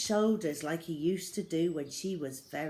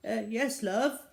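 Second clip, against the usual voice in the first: unconvincingly affectionate; 5 semitones higher, 4 dB louder than usual. Acted. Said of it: "in an unconvincingly affectionate tone".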